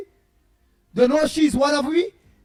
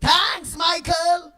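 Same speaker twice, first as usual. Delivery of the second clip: mock cheerful thanks; 5 semitones higher, much slower than usual. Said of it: "just catching melon in the backyard and saying".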